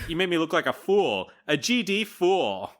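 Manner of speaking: mock fury. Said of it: "She's furious".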